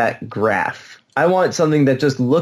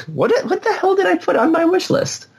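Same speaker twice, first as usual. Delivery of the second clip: laughing. Real, not acted. Laughing at own wish list.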